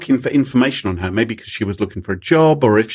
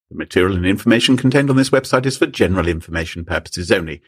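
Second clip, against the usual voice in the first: legal disclaimer read; 4 semitones lower than usual. Shown as a demonstration. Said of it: "let's look at it".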